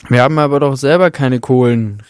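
usual speaking voice

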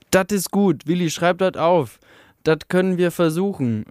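an eager worker shouting agreement in dialect; voice calling out. Acted. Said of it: "rief eine Stimme".

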